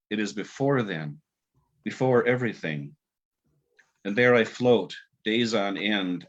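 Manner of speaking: slow, measured recital with long pauses; poem reading. Acted. Author reads his Naxos poem to the host, slow and measured. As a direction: let each image land, unhurried.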